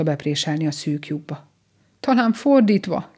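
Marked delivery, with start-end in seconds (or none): 2.0-3.1 higher, louder, exasperated call; desperate cry. A narrator's reading. Rabbit stuck at the burrow, desperate cry. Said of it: "kiáltott elkeseredetten".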